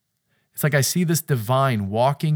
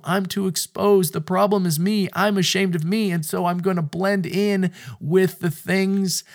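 higher, pleading inner voice; lightly voiced ashamed couple; 7 semitones higher, 4 dB louder than usual. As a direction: speak as the one who hides.

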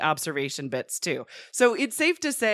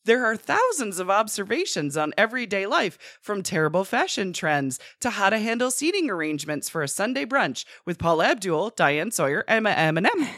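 infomercial. Pretend. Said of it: "I, I can sell you this book".

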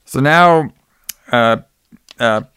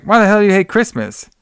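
much higher, stunned outburst; shocked question; 8 semitones higher than usual. Retold or imitated. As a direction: ask it in total disbelief. Billy shocked by Kate's answer.

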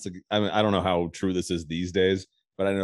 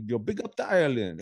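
lightly put-on Jamaican accent; a hint of imitated Jamaican patois; mock Jamaican patois; 3 semitones higher than usual. Host imagining Chet Hanks trying out patois, light mock Jamaican accent. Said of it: "Jamaican dudes have the best accent".

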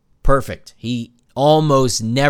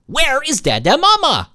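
put-on a scared baby waking up in the crib, wailing; panicking baby. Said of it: "They wake up twenty minutes later".

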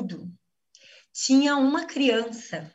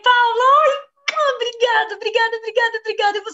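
high, loud outburst of gratitude; effusive thanks; 10 semitones higher, 5 dB louder, faster than usual. Real, not acted. Student calling out to Paula in overflowing, high, loud gratitude. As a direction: call her name out and gush your thanks.

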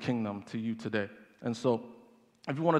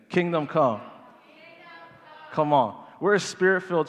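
louder call; 4 semitones higher, 5 dB louder than usual. Shown as a demonstration. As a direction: say it louder, with energy. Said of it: "I can't hear you".

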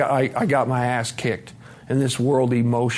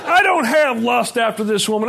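laughing correction; 8 semitones higher, 3 dB louder than usual. Real, not acted. Still laughing, correcting himself.

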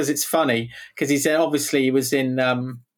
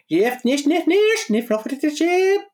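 backwards speech; 9 semitones higher, slower than usual. Pretend. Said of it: "Something like that, actually".

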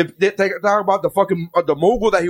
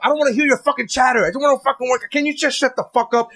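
retold exasperated rant, pitched up; annoyed; 6 semitones higher, faster than usual. Gym-goer retelling his annoyance at chatting classmates, exasperated. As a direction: vent mild irritation, voice rising. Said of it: "It was so annoying 'cause I'm like".

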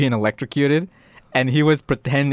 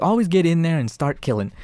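higher-pitched eager doll voice; gleeful killer doll; 5 semitones higher than usual. Retold or imitated. Killer doll coaching little girl at game, gleeful. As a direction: play the doll relishing the game.

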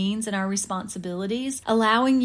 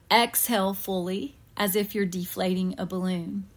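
unhurried breathing guide with long pauses; guided meditation. Real, not acted. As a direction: ease them gently into relaxation, pausing between breaths. Leads a guided breathing visualization.

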